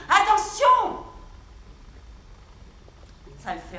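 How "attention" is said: cri d'alerte. Retold or imitated. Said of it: "je crie".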